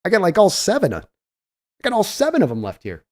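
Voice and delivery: imitating stunned amazement, jumping high on "these"; playing a GM who can't believe his luck; mock disbelief. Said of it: "He's like".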